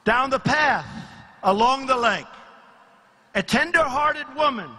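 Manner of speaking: measured storytelling, pausing after each phrase; dramatic verse reading with deliberate pauses; poem recital. Acted. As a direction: declaim a rhyming fable to a crowd.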